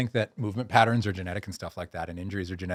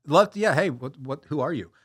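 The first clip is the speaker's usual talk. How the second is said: surprised self; 7 semitones higher, 5 dB louder than usual. Retold or imitated. Retelling his own surprised reply.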